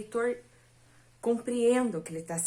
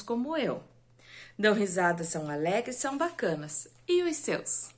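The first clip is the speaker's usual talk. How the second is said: poem reading; faster than usual. Shown as a demonstration. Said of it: "Eu separei aqui um poema pra vocês".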